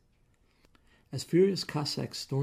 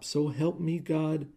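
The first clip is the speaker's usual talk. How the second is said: slow, weighty warning; husband slowly warning his wife; 4 semitones higher, 4 dB louder, slower than usual. Acted. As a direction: draw out the threat slowly. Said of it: "Rooney warned".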